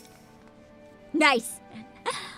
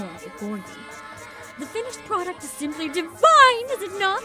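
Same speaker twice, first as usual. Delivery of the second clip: pompous showman; 5 semitones lower than usual. Acted. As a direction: boast about the mascot grandly. Showy NPC continues.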